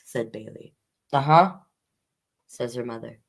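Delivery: gentle storybook read-aloud; reading to children. Acted. Librarian reading a picture book to children, gentle storyteller voice.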